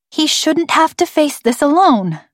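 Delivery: put-on high, upset girl's plea; failing to sound calm. A narrator's reading. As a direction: pretend calm while agitation pushes the pitch up. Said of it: "trying to pretend to be calm and failing".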